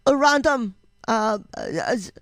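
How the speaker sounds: halting mock German accent. Imagining a German gamer greeting Random Germ, mock German accent. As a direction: put on a hesitant German accent. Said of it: "German accents".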